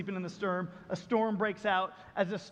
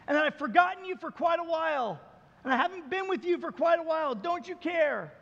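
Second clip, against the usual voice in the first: crying out to God; 5 semitones higher than usual. Retold or imitated. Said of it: "we cry out to God".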